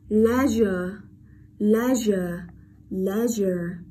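Leisure with the s buzzed as zh; voiced zh. Shown as a demonstration. Teacher drills next word, leisure with clear zh. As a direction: model "leisure" carefully, lingering on ZH. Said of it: "Vậy ở đây được đọc là âm".

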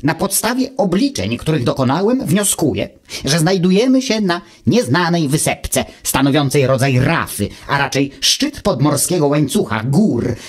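lightly voiced know-it-all little machine, calm; a hint of a smug gadget lecturing; Wuch's voice. Wuch answers Automateusz from his ear, lightly voiced and calm.

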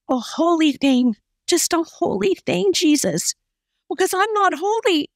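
a hint of a broken woman praying softly; quiet plea. Preacher voicing the woman's private plea, lightly acted. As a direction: plead quietly to God. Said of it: "she said so quietly".

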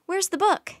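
high, loud, excited question; eager urgency. Acted. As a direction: ask impatient to get going. Annie eager to set off.

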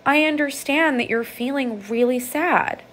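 put-on kneel down and calm an upset child; gentle, validating parent. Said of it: "look that child in the eyes and say".

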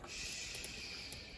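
a soft voiceless shh; whispered. Acted. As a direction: hush them with a breath. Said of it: "whispered James".

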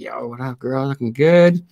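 mock smooth gangster come-on; teen playing gangster Romeo; sweet gangster.

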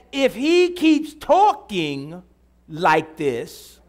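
slow, drawn-out preacher emphasis; emphatic preaching. Real, not acted. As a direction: hammer the point home to the congregation. Preaches a point at full force.

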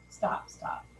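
whispered stop, stop; hushed interruption. Retold or imitated. Judge leaning forward to silence her, whispering.

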